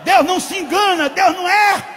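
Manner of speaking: loud, high, slow proclamation; preaching at full force. Real, not acted. Preacher proclaims to the congregation, loud and high. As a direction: hammer it home to the church.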